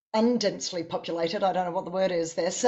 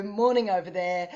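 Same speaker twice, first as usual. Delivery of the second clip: ordinary talk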